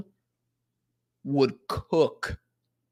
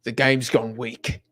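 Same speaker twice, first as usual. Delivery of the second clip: attempted British football-manager accent, slow; half-hearted British accent impression, drawn out; Sean Dyche accent; slower than usual. Shown as a demonstration. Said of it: "say in the Sean Dyche accent. Let me try it".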